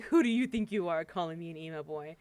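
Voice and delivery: lightly tossed-off mock challenge; joking, retold. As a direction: say it as if it were only a joke. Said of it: "he was joking at first".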